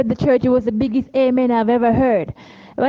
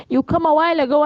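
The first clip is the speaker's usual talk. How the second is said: a man's voice pitched higher, choked up; crying man; 4 semitones higher, faster than usual. Retold or imitated. Stranger tells Cheryl she came earlier, higher crying voice. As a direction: voice the weeping stranger. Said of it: "and he's like".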